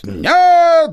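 very high, loud barked no. A narrator's reading. Spirit barking no at the hunter, loud. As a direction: bark the refusal from the hollow. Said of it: "громко рявкнуло дупло".

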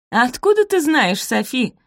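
high loud jeering question; mocking. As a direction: taunt her with scorn. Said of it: "насмешливо спросила Розамунд".

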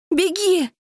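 very high, loud panicked scream; desperate shout. Acted. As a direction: scream at him to flee. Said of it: "кричу я".

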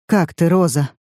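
usual speaking voice

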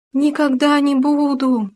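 high, slow, frightened howl. A narrator's reading. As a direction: howl the promise in fear. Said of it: "провыл им в ответ суслик".

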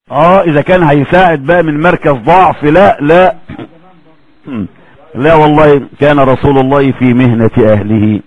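usual speaking voice

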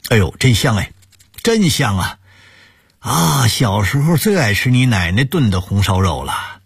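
pleased, appreciative eater; savouring delight. Acted. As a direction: sigh over how delicious it is. Savouring a bite of pork.

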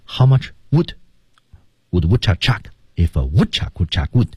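would reduced, rhythm kept; how much wood with weakened would; weak forms. Shown as a demonstration. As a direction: let would shrink and flow. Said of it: "情态动词...被弱读".

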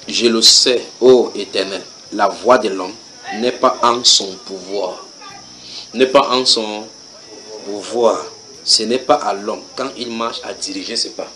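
slow, hushed verse reading fading away; solemn scripture recital. Acted. Reads verse slowly and softly.

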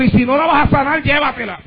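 put-on a child's plea, dropping to a hush at the end. Preacher retelling his daughter's prayer, pleading and fading. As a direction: let the plea sink away on llévatela. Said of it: "Y le dijo al Señor".

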